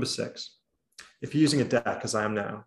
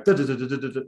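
rapid-fire patter of nonsense syllables; machine-gun the syllables, quick and even; sped-up tempo; 3 dB louder, much faster than usual. Shown as a demonstration. Speaker showing audience tempo matched to the point, sped-up tempo. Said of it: "I just got the tempo".

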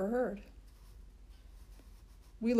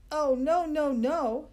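put-on high, loud bossy girl protesting; 6 semitones higher, 7 dB louder, slower than usual. A narrator's reading. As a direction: shoot it down like a know-it-all. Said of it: "she said".

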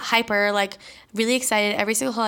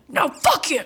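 higher, mock-furious retort; snapping; 6 semitones higher than usual. Triggered aunt lashing back at her relative, snapping. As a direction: imitate an aunt suddenly triggered. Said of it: "and she will snap".

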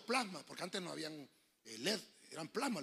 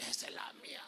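soft whispered recognition; whispered aside; 8 dB quieter than usual. Retold or imitated. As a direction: whisper it to yourself. Reconoce su Biblia en secreto. (susurro para sí)

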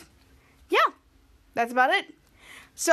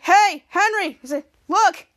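loud, higher call; 3 semitones higher, 5 dB louder, slower than usual. Retold or imitated. Josh calling to Henry, loud higher call. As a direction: grab his attention.

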